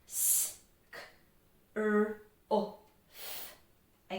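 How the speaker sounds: S, k, r, o, f sound by sound. Shown as a demonstration. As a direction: separate each sound in S, k, r, o, f with pauses. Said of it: "Let's do it again".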